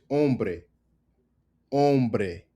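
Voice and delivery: hombre said om-breh; silent H. Shown as a demonstration. Teacher showing the H disappear, "hombre" starting on O. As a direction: drop the H from "hombre". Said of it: "The H disappears".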